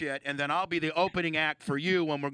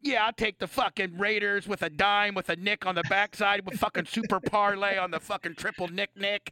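imitating Artie's bookie talk; 3 semitones higher than usual. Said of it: "No, but this is how you talk".

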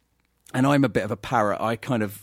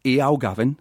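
Geordie accent. Shown as a demonstration. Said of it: "the little phrase is".

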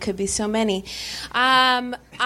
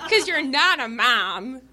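slow, higher imitation of a small child; little girl; 4 semitones higher, slower than usual. Four-year-old explaining to her babysitter, imitated little-girl voice. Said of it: "this four-year-old little girl".

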